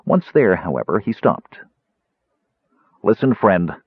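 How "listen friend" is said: stern. Acted. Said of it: "he said sternly".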